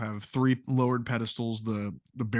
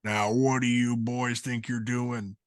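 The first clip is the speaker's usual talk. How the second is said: put-on gravelly old man. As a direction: growl it like a crusty old-timer. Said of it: "the gravelly voice of an old man call out".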